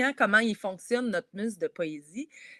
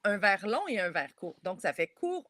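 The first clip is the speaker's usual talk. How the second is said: rhythmic stress on "long" and "court". Shown as a demonstration. Teacher tapping out the short-long-short verse rhythm. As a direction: tap out "court, long, court" like a beat. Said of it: "ce qu'on préfère dire".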